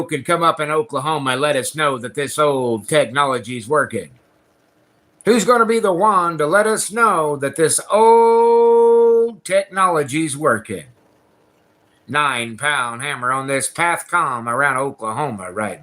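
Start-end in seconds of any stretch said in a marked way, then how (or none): 5.2-10.8 loud, drawn-out call over the radio. Real, not acted. CB operator hollering out to anyone listening, loud and drawn out. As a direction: stretch it out and holler for an answer.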